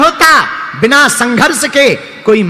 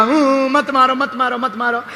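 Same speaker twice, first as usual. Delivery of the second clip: imitated soft whimper of pleading; mock crying; 5 dB quieter than usual. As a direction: wail a little, pretending to beg for mercy. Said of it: "रोने लगा". (रोने की नकल करते हुए गिड़गिड़ाना)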